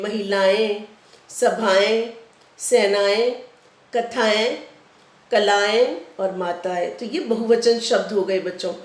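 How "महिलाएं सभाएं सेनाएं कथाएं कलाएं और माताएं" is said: each plural ending in a nasal एं, read slowly; teacher reading plural forms aloud; plural list demo. Shown as a demonstration. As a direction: lean on the nasal ending of महिलाएं. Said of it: "तो ये बहुवचन बन गए".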